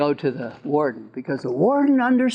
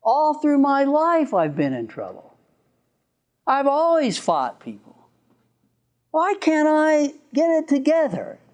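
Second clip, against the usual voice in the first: anguished inmate; 8 semitones higher than usual. Retold or imitated. Inmate's anguish before crying.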